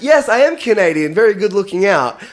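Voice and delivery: a touch of mock gratitude; pleased Canadian. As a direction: play a gratified Canadian, lightly. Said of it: "the Canadian will be like".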